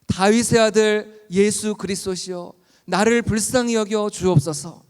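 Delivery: loud, slow, drawn-out cry for mercy; beseeching preacher's shout. Retold or imitated. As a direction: call out loudly, stretching the words. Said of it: "막 소리를 지르는 거예요".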